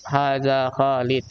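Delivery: slowly, word by word, for pupils to copy; slow model reading. Shown as a demonstration. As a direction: read it out slow and clear like a teacher. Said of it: "ini kalian baca aja ya".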